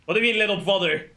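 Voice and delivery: fast, loud disbelief; what do you mean, incredulous. Real, not acted. Mock disbelief at plot twist.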